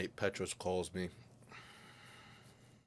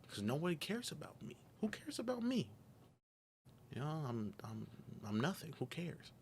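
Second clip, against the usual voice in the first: anguished outburst; 7 semitones higher, 3 dB quieter than usual. Retold or imitated. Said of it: "So I start breaking down".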